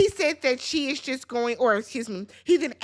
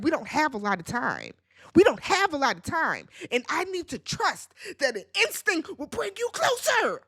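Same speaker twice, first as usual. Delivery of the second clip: retold irritation building higher; mock irritated; 3 semitones higher than usual. Irritated man tells his date time is short, mock exasperated. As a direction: imitate testy impatience, pitch climbing by the end. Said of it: "He was irritated and was like".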